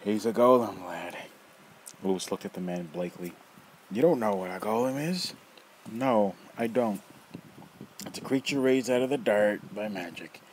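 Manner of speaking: loud, rough, mocking old man; teasing old rogue. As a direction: toy with the kid, loud and gleeful. Nefer explains golem.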